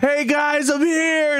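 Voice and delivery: voicing the soldier. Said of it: "And he goes".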